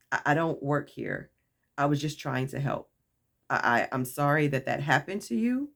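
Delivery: measured, polite explanation. Retold or imitated. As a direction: explain yourself courteously, keeping the voice down. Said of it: "I politely said".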